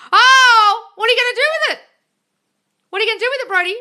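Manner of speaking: high, loud eager question; excited curiosity. Real, not acted. Host excitedly asking Brody about his rooms, high and loud. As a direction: pounce on the news with delight.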